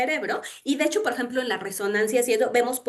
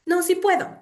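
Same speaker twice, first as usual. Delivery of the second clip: self pep talk; 8 semitones higher, 4 dB louder than usual. Retold or imitated. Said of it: "ya agarro y es como".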